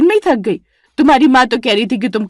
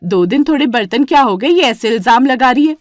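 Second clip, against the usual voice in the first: higher, louder protest of years of work; aggrieved outcry; 4 semitones higher, 4 dB louder than usual. Acted. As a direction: plead loudly, wounded. Vimla complains to mother-in-law. (शिकायत भरी ऊँची आवाज़ में)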